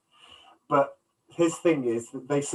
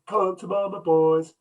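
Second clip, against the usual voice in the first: teasing come-on; 6 semitones higher, 3 dB louder, slower than usual. Retold or imitated. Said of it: "people remembered that scene".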